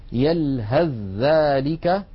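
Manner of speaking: يلهث ذلك said yalhadhdhālika, no ث; very slow, careful recitation, ث merged into ذ; drawn-out demo of the merge; merged reading. Shown as a demonstration. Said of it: "لاحظوا أقول يلهث ذلك ولا أنطق الثاء".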